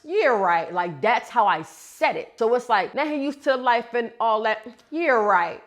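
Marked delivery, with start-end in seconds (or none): 0.1-0.7 dismissive scoff; sarcastic yeah right; sceptical yeah right. Shown as a demonstration. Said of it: "like it was a conversation". 2.9-5.6 dismissive yeah right, louder; with attitude. Shown as a demonstration. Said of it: "That's attitude".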